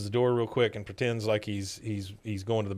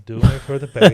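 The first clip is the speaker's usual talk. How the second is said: gruff excuse; 10 dB louder, faster than usual. Retold or imitated. Cotton grumbling his excuse.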